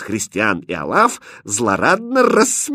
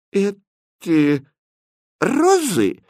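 high, unsure question; not sure what she sees; uncertain; 10 semitones higher, much slower than usual. Acted. Princess doubtfully asks about the roses, uncertain. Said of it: "неуверенно сказала принцесса".

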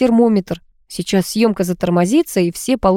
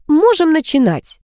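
higher, gleeful cry of delight; 10 semitones higher than usual. A narrator's reading. Dyudyunya starting the film shoot, delighted and high-pitched. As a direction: announce it like a happy child. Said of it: "обрадовалась Дюдюня".

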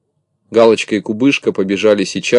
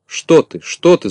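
flustered denial; 8 semitones higher, 4 dB louder, slower than usual. A narrator's reading. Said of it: "замахал Незнайка".

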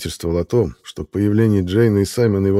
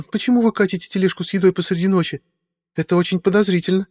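put-on high, startled then suspicious girl's voice; a nervous young woman catching them red-handed; young woman Meadowlark; 11 semitones higher than usual. A narrator's reading. Meadowlark questions Simon about the food cart, high suspicious young woman.

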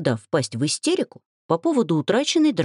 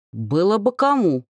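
bristling; 4 semitones higher than usual. A narrator's reading. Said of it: "ощетинился Велька".

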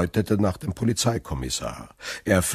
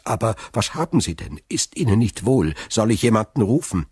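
quick, louder concerned questions; worried; 3 semitones higher, 3 dB louder, faster than usual. Acted. Sailor offers help to faltering prosecutor, worried. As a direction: fire off anxious questions.

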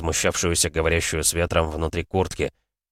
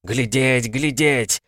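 higher urgent screech; shrill; 6 semitones higher, much slower than usual. A narrator's reading. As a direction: cry out to look. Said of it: "заверещала она". (пронзительно и срочно)

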